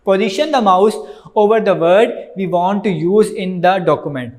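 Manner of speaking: very slow, word-by-word reading from the book; slow textbook reading. Acted. Teacher reading the book aloud to students, slow dictation.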